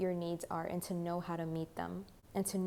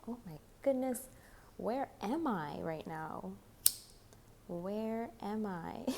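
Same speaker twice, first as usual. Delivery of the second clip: amused surprise; 2 semitones higher, 4 dB quieter than usual. Real, not acted. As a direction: catch yourself, amused and puzzled. Notices bare table, amused.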